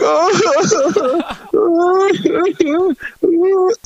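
hammed-up high wail of crying; mock weeping sound. Comic on stage pretending to weep into microphone. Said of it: "I just start going".

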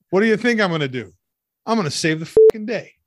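movie line shouted. Acted. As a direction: belt it out like a cocky action hero. Reading Nick Cage's Con Air line.

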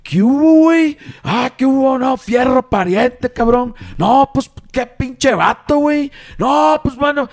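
high, loud imitation of a northern Mexican Sinaloa accent. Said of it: "como hablan ustedes".

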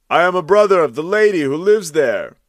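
a hint of timid Andreuccio; nervous reply. A narrator's reading. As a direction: answer with misgivings. Andreuccio replies upward.

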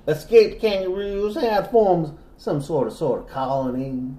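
lightly southern narration; genteel Southern storyteller; southern accent. Pretend. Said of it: "that same accent".

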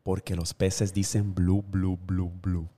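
low, soft, slow delivery; hushed, low bubbling fish; deadpan fish punchline. Acted. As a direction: drop it quietly and slowly.

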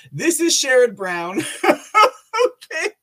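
loud, high, breaking into laughter; laughing through words. Real, not acted. Host shows the audience the senator, loud laughing voice. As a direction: announce it loudly while cracking up.

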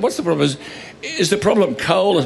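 halting, faux-naive questioning; playing dumb. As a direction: feign confusion while asking. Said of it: "playing dumb".

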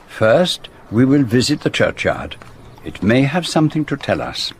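put-on measured speech in a French accent; French-accented detective. Detective correcting his friend over lunch plans, French accent. Poirot, a character in the drama.

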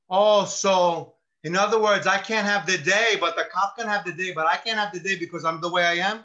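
loud, aggrieved mock complaint; indignant protest. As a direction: act out being unfairly refused, building fast. Mock Rusty protests to lieutenant.

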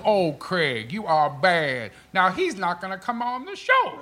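Magic impression. Comic imitating his co-host after a celebrity joke. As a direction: imitate Magic's teasing line. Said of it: "he goes".

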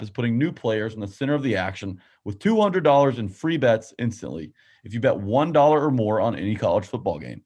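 upbeat sponsor ad read; hard sell ad. Acted. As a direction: sell it like a radio spot.

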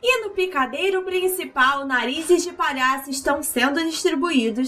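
lightly voiced circus ringmaster. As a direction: announce it like a big-top ringmaster.

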